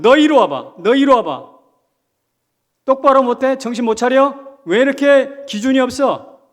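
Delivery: loud, high scolding like a grandfather. Retold or imitated. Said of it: "야단을 치고 꾸짖는".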